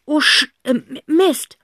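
put-on high, fast panicky boy's voice; panicked boy. Zack panics about Papa and calls to Aunt Rotz. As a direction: stumble then hurry in alarm. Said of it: "ruft Zack".

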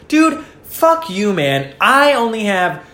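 high-pitched indignant roommate retort; angry. Acted. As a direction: act out boiling over at a roommate. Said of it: "it just makes you angry".

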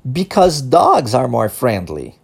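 slow model sentence. Shown as a demonstration. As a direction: say it slowly for the class to repeat. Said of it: "Vamos repetir essa frase?".

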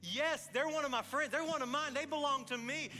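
Jesus gladly vouching for a friend; warm welcome. Retold or imitated. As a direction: claim them as your own with joy.

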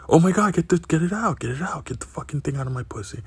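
frantic, get it out now; panicked. Retold or imitated. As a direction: girlfriend panics about the lime stuck inside. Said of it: "She was like".

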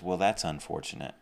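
softly voiced, mildly detached pity; a quiet, passive bit of acted sympathy. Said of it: "Pity looks on someone and says".

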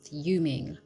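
a hushed, breathy fuming; whispered fuming. Real, not acted. Venting to viewers about being underpaid, whispering fuming. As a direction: drop the word fuming to a whisper. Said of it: "I am, like, fuming".

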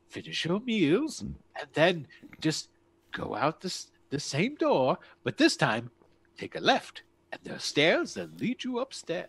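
cheerfully menacing lord greeting his guests; Krasner's voice. Acted. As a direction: play the grand sinister host, sing-song and sly.

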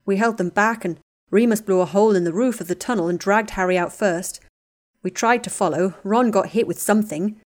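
loud, tense battle report; shaken Neville. Acted. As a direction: push it out, still shaken from the fight.

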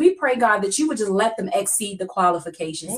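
earnest preaching prayer voice. Acted. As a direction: pray it with steady conviction. Leads a prayer.

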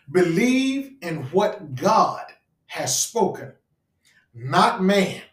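very slow, pause after "spoken", punch "not man"; drawn-out line with "not man" set apart; pause before NOT MAN. Real, not acted. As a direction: break at the comma, then land "not man" firmly. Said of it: "I put a comma right there".

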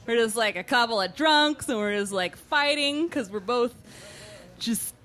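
halting pretend-drunk argument; badly faked drunk. The speaker defending her act to suspicious friends, badly faked drunk. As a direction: drag it out with gaps, bluffing drunkenness. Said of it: "are you pretending to be drunk".

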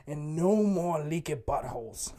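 booming pitchman selling a product; loud mock ad pitch. Podcast host hamming up a fake ad, loud. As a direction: sell it loud like an infomercial.

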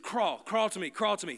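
father calling out. Retold or imitated. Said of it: "He said".

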